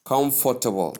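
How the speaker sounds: COMFORTABLE as kom-for-tuh-bol; Nigerian mispronunciation. Shown as a demonstration. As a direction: give "comfortable" a full "kom" and "for". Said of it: "some people do pronounce it".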